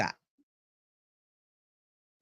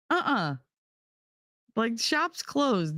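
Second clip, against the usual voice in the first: slow, final shop's closed; drawn-out and final; slow and deliberate; 6 semitones higher, slower than usual. Retold or imitated. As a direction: drag it out to shut him down. Dismissive punchline.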